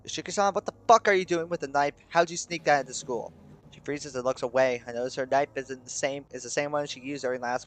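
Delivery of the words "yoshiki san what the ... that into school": angry. Acted. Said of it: "she glares at me angrily".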